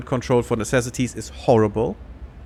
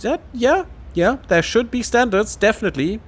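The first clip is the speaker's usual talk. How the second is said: eager agreement; 9 semitones higher than usual. Real, not acted. Eager agreement with game text.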